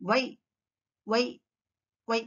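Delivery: "వై" as why, lips pushed forward; "వై" with no teeth on the lip; W sound. Shown as a demonstration. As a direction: start "వై" with a rounded W. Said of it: "Our mouth goes forward".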